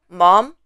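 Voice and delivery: mom with a rising pitch; second tone. Shown as a demonstration. Teacher showing tones on an English word, rising tone. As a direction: lift the pitch through mom like a question. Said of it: "The first is the tones".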